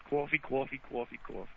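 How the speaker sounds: COFFEE mimicked as cwawfee four times; mock cwawfee chain; imitated accent on coffee. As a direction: copy the w glide in a coffee run. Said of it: "every time you still do it".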